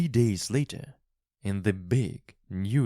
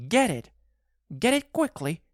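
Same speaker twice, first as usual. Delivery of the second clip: much higher and louder, desperate; frantic urging wife; 4 dB louder, faster than usual. A narrator's reading. Wife urges husband to fetch the paw, frantic and high. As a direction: push him to act now. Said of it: "cried again".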